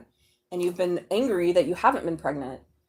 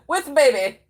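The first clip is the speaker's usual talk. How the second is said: laughing repeat; 4 semitones higher, 7 dB louder, slower than usual. Real, not acted.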